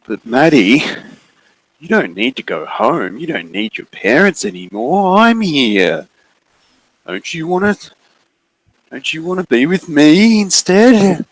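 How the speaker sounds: high, pleading voice of a lurking figure; booming mysterious figure. Acted. Mysterious figure luring Maddie away from home, high and pleading. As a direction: coax her to stay, voice climbing high. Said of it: "the mysterious figure booming voice".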